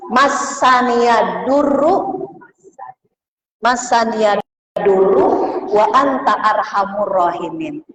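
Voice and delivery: slow, drawn-out recitation for note-taking; chanted slowly for dictation. Shown as a demonstration. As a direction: spell out each phrase slowly so they can write it. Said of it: "Kalau pengen tahu doanya itu".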